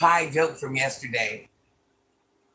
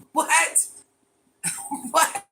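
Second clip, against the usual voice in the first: surprised; 12 semitones higher, 3 dB louder than usual. Real, not acted. Shocked by the hole-in-throat claim.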